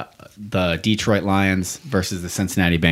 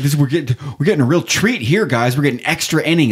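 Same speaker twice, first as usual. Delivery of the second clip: mock enthusiasm; 6 semitones higher, faster than usual. Bored fan at extra innings.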